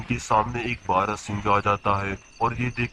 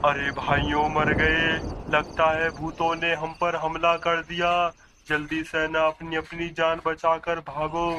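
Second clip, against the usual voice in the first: high-pitched, hammed-up cry of panic; panicked coward; 6 semitones higher than usual. Coward warning friends that ghosts have attacked, panicked high wail. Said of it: "तू तो बहुत बड़ा डरपोक है".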